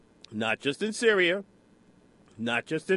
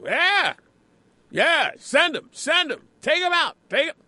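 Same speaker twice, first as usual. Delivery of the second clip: high, loud imitation of eager hawks; hammed-up rallying shouts; mock gung-ho cheering; 10 semitones higher, 4 dB louder than usual. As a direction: egg them on in high-pitched bursts. Mimicking hawkish Congress people.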